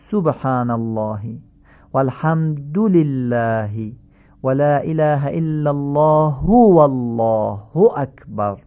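slow recitation, "سبحان" as subhana; correct Arabic damma. Shown as a demonstration. Teacher models the tasbihat for learners, correct Arabic damma. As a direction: give "الحمد" a clear final u, alhamdu. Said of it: "تمام این ضمه ها باید فصیح تلفظ بشن".

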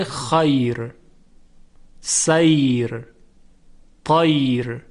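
خیر, سیر, طیر drawn out slowly, light final R. Shown as a demonstration. Teacher listing exception words, light R ending خیر, سیر, طیر. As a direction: stretch each word and stop on a thin R. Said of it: "در این گونه کلمات ترقیق".

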